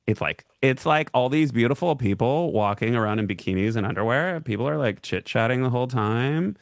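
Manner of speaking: UNDERWEAR and TIME lifted like questions; rising ends on UNDERWEAR and TIME; uptalk. Acted. Quoting a sauna-goer to the co-host, uptalk rising on TIME. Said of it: "some good up-talking".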